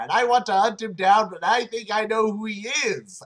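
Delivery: overacted breathless plea; hammed-up urgent Naomi. Naomi urgently pleading to L, hammed up.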